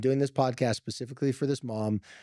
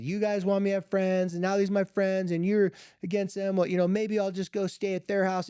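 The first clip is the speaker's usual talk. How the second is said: higher-pitched upset daughter, mildly acted; retold tearful protest; 5 semitones higher than usual. Daughter protests to parents about her friends, mock tearful protest. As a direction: imitate a daughter's tearful complaint without real crying. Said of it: "The daughter breaks down crying".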